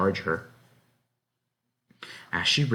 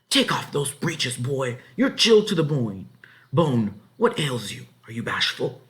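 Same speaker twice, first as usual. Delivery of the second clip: higher, louder bossy voice; rough insistent farm wife; 5 semitones higher, 4 dB louder than usual. A narrator's reading. Farmer's wife grips the shivering boy's shoulder, insistent. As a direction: chide him, brisk and rough.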